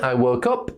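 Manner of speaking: "woke up" with the stress on UP; stress second word. Shown as a demonstration. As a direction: lean on "up" in "woke up". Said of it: "You stress the second word".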